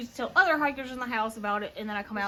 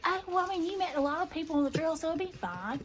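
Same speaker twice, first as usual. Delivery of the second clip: reassuring friend; 5 semitones higher, 3 dB quieter, faster than usual. Retold or imitated. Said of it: "Disco's like".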